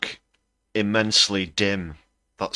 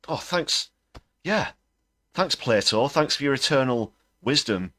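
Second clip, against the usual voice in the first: heavy sarcasm; 4 semitones higher than usual. Acted. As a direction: thank him like he's a fraud. Sarcastically thanking Musk for wisdom.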